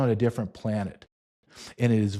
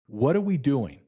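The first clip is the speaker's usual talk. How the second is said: mildly booming, higher-pitched retold question; big booming voice; 4 semitones higher than usual. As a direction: imitate a loud, big-voiced father, lightly. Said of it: "loudly has a big booming voice".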